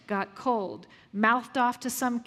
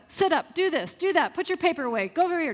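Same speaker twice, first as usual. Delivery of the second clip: bossy commands; 4 semitones higher, faster than usual. Retold or imitated. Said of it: "I start giving her commands".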